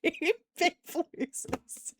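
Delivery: breathless, laughing through the words; can barely get it out for laughing; wheezing with laughter. Real, not acted. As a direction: beep beep losers dissolving into an airless wheeze. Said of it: "My sides hurt".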